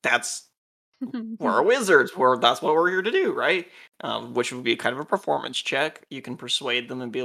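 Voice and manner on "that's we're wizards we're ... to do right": light, joking, louder wizard boast. Shown as a demonstration. Game master shows a joking persuasion line, playful. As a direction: say it as a breezy joke. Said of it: "Kind of like a joking".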